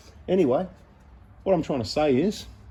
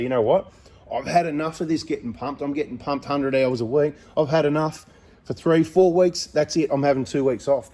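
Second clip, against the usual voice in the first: fed-up outburst; 3 semitones higher than usual. Pretend. Owner mock-ranting to customers that he's taking weeks off. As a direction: act out snapping and declaring a break.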